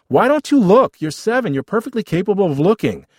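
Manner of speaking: high, loud squabbling retort; exasperated. Acted. Older brother to seven-year-old brother, exasperated.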